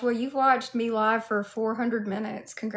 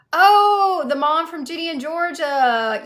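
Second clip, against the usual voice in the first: surprised recognition; 6 semitones higher, 8 dB louder than usual. Real, not acted. Recognizes comparison from viewer chat.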